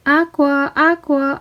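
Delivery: calling high and loud across the cove. Acted. Girl calling her mermaid friend at the cove, calling out. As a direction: call out for a missing friend. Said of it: "I called".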